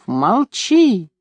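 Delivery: a sudden shrill yelp of Молчи; shrieked order. A narrator's reading. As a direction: snap it out in a shriek. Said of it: "взвизгнув".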